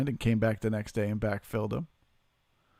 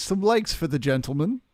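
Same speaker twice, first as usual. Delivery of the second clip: raised pitch, likes lifted at the end; higher pleading repeat; 4 semitones higher than usual. Acted. Streamer repeats the plea to chat, higher and playful. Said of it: "Yes, please".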